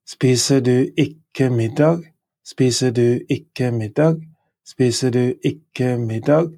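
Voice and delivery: "Spiser du ikke middag" rising on "middag"; Norwegian question. Shown as a demonstration. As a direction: model question for learners. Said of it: "Aren't you eating dinner?".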